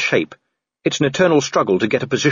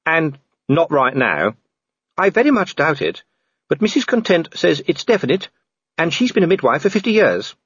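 higher-pitched wife voice; gently higher voice for the wife, breaking news to her husband; wife confiding news; 6 semitones higher than usual. Acted. Voices Sybil answering her husband.

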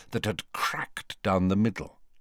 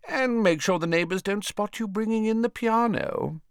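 put-on high-pitched, busy old man; chattering, evasive Slughorn; 6 semitones higher than usual. Old man explains life on the run, chattering. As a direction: rattle on about your arrangements, voice raised.

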